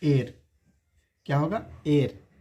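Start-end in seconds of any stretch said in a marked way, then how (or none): 0.0-0.4 एयर with silent h, "air"; correct pronunciation. Shown as a demonstration. Teacher gives heir's pronunciation, एयर with no h. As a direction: say एयर starting straight on the vowel. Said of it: "इसका pronunciation होगा".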